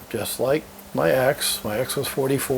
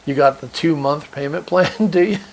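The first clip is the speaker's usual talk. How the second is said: sarcastic mockery; 2 semitones higher, 4 dB louder than usual. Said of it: "I'll say".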